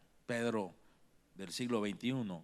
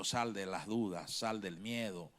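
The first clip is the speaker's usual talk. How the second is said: softer, lower coaxing voice; Jesus gently telling his followers to let go of fear; gentle urging; 3 semitones lower, 3 dB quieter than usual. Acted. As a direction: lead them out of fear gently. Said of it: "Como diciendo".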